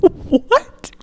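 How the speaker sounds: high, slow incredulous laugh; what on earth, laughing; stunned laughing disbelief. Real, not acted. Friend asks the genre after a shocking opening line, incredulous.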